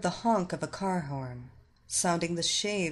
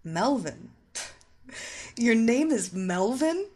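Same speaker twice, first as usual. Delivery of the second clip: mocking laugh; 3 semitones higher than usual. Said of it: "the hypnotist laughed".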